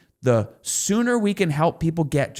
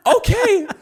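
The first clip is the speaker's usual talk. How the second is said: a much higher, louder, laughing mock okay; unimpressed okay; 6 dB louder than usual. Husband imitating his wife's reaction to seven dollars, high laughing okay. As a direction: play the wife, politely unimpressed.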